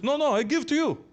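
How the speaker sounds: high, mock-insistent Arab accent; hammed-up Saudi guest with Arab accent; imitated Arab accent. Guest's accented reply, retold.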